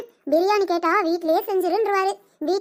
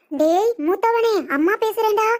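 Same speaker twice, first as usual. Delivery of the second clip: slow, drawn-out call with a little extra push; calling out on phone; slower than usual. Acted. Mother calling her eldest son over the phone, slow drawn-out call. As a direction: stretch his name out to get the son's attention.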